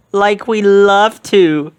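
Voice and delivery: high, loud, slow nervous Shaggy; hammed-up frightened Shaggy. A narrator's reading. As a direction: stall scared but polite. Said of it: "Shaggy told his friends".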